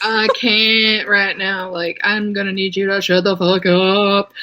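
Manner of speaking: put-on drawling valley girl act; mock valley girl, vowels stretched. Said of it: "talking about the Valley Girl accent".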